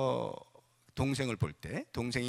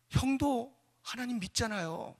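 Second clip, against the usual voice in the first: appealing; 8 semitones higher than usual. Acted. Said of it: "그와 같은 말을 하는 거예요".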